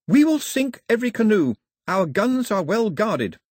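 high, loud, forceful threat; hissed threat. A narrator's reading. Daphne threatens raiders in island tongue, fierce high hiss. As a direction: drive the warning home. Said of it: "she hissed".

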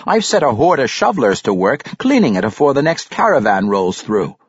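hearty dwarf voice reporting on work; lively storybook dwarf; dwarf character. Acted. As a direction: play a busy dwarf, pitched a touch up.

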